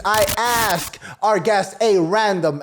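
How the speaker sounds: slow build-up with emphasis on "random"; stress on RANDOM. Shown as a demonstration. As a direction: lean hard on the word "random". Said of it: "emphasis on the word random".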